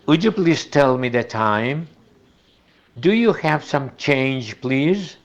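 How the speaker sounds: "Would you" run together as wudju; teacher reading an example sentence; linked would you. Shown as a demonstration. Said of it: "se pronuncia uyu".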